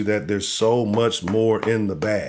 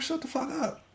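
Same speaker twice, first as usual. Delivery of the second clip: dismissive retort; 13 semitones higher, 12 dB quieter than usual. Retold or imitated. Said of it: "I'm like".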